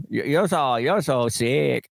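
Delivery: doctor imitated in an Asian accent; mock Asian accent. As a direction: drag it out in a put-on Asian accent. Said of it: "if your doctor talked like that".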